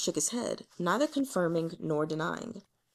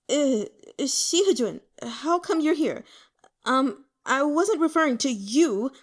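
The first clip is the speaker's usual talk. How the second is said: flustered; 5 semitones higher, 5 dB louder than usual. Acted. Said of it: "Yue Chengqing was startled".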